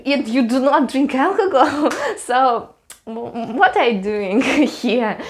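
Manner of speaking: mock scolding dissolving into giggles; laughing through the quote. Friends teasing the sober Russian, laughing. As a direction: laugh while imitating the friends.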